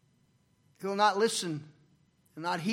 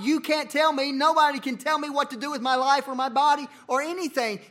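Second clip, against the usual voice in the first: defiant retort; 5 semitones higher, 4 dB louder than usual. Retold or imitated. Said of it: "To say to God".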